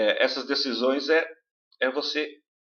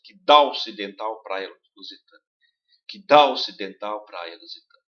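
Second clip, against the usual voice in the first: dá louder, the o of ocidental almost swallowed; stress on dá; 4 semitones lower, 5 dB louder than usual. Shown as a demonstration. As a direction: punch dá, let the o vanish. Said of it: "o o quase desaparece". (dá forte, o quase some)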